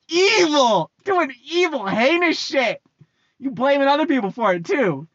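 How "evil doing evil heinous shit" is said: loud, higher blurt of the word; loud, higher exclamation; emphatic shout. Real, not acted. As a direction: spit the word out like an accusation. Ranting about older generation.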